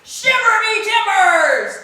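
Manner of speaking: high, loud astonished exclamation; surprised pirate cry. Acted. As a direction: gasp it out in wonder.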